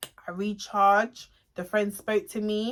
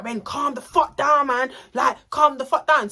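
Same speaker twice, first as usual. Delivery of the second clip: acted-out heated order, higher pitched; exasperated order; 4 semitones higher, 4 dB louder than usual. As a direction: imitate a friend urging her to calm down. Friend restrains her in retold row.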